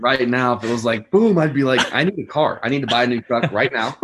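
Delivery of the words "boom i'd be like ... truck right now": excited. Retold or imitated. Excited retold impulse buy.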